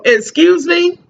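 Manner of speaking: high, incredulous Excuse me; shocked disbelief. Retold or imitated. Mom retelling her reaction to the school's call, shocked. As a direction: act stunned at the school's news. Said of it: "And I'm looking like".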